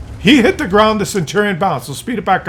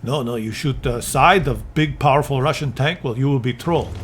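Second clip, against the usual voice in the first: mock dumb developer; 8 semitones lower, 5 dB quieter than usual. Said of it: "and Wargaming said".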